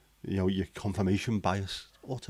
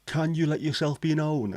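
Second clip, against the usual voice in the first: investigator calling spirits; 8 semitones higher than usual. Retold or imitated. Investigator pressing the radio button to reach spirits, high-pitched calling-out. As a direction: imitate a ghost hunter summoning the dead. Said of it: "he pressed the button going".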